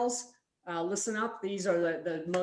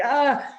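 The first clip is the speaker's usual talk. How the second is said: loud, higher mock groan; exasperated groan; 6 semitones higher, 8 dB louder than usual. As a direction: groan like an overwhelmed friend. Friend groans, head on table.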